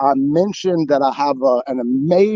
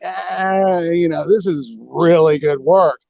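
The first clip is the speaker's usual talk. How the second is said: drawn-out wary "ah", mildly acted; suspicious; slower than usual. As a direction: hedge it with mock suspicion. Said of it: "I was suspicious".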